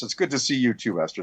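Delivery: ordinary delivery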